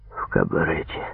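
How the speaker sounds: low, soft croaked reply; subdued, croaking prisoner; hoarse croak. A narrator's reading. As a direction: croak it out weakly, keeping it low. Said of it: "прохрипел тот".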